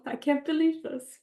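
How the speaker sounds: fighting back tears while speaking of family; getting emotional. Real, not acted. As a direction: voice rising high with real emotion. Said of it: "now I'm getting emotional".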